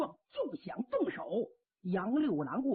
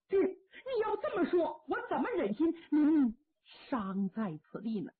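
can't bear to leave him, weeping; half-laughing, half-crying plea; tearful protest; 4 semitones higher than usual. Acted. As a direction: laugh catching into a sob, high. Son refuses to leave father.

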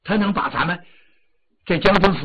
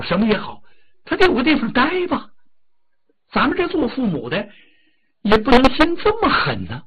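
tearful pleading; 6 semitones higher, 6 dB louder than usual. Acted. The wife weeps as she begs her husband to spare the temple, getting higher and louder. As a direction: voice climbs higher and louder, breaking into a sob. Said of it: "一边哭着一边说".

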